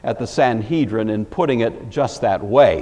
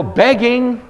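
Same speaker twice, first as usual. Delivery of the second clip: ordinary talk, nothing marked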